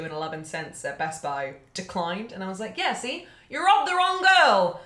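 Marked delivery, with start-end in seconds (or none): 2.8-4.8 rising high and loud, laughing at the end; indignant outburst. Retold or imitated. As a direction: tell off the thief, getting louder. Retold taunt at the thief, building.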